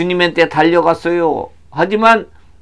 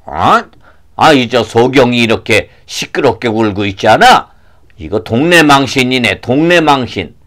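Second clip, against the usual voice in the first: lower-pitched disgruntled complaint; grumbling townsman; 4 semitones lower than usual. Acted. Townsman embarrassed by the blind man, grumbling. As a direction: grumble about the racket.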